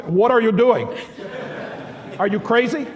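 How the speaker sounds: half-laughing mock outrage; indignant rebuke. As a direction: snap at him like a shocked bishop. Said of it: "Bishop Alexios would come and say".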